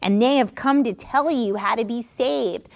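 lightly mocking fortune-teller voice. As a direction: taunt them with a put-on proclamation. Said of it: "said it in a very mocking tone".

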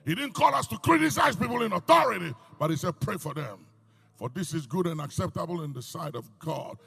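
loud, ringing sermon delivery; fiery pulpit preaching. Real, not acted. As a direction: preach it out to the congregation. Preaching at full force.

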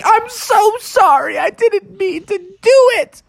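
very high squeaky apology; high pleading frog voice; sorry little frog. Acted. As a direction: plead like a tiny guilty frog. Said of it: "Froggy's like".

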